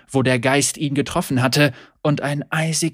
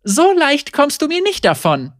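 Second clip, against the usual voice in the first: higher, louder teasing; playful Senna; 13 semitones higher, 5 dB louder than usual. A narrator's reading. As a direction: laughingly refuse to let him off.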